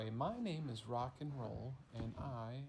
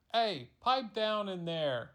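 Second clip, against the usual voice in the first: calling out; 7 semitones higher, 10 dB louder than usual. Acted. Someone inside telling the creature to hush, loud call. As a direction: shout through the house.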